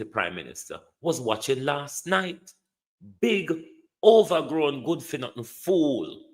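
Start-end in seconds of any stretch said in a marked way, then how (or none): 3.2-6.2 scornful outburst. Real, not acted. Insulting the prime minister.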